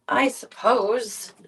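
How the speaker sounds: slow reluctant "I suppose"; slow sigh. Real, not acted. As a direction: drag out a grudging sigh.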